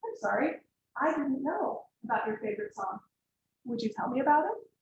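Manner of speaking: soft, gentle apology and invitation; calm the client down with a soft question; calm reply. Shown as a demonstration. Counselor modelling a calm answer to a client, soft and gentle. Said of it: "you calmly respond".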